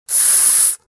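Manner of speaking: a sharp, breathy shh for silence; conspiratorial shh; hushing. Acted. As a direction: hush him like it's a secret. Neighbour hushes him.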